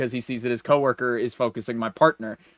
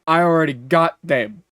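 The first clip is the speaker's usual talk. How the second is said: louder mock-territorial clerk; joking protest; 3 semitones higher, 5 dB louder than usual. Clerk tells his coworker those are my customers, joking protest. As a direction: imitate a salesman playfully claiming his customers, punching the words. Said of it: "As, like, a bit across to him".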